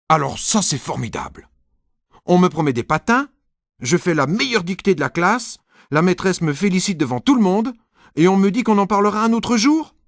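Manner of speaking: rising high, loud indignant protest; outraged child. Acted. Nicolas protests to dad about the skates, rising high and loud. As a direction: build into a tantrum.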